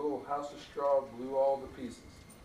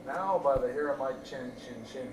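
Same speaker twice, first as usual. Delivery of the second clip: wolf roaring; 3 dB louder than usual. Acted. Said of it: "he roared".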